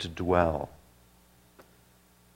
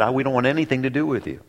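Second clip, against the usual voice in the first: demons' reply; 4 semitones higher, faster than usual. Retold or imitated. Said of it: "The demons said".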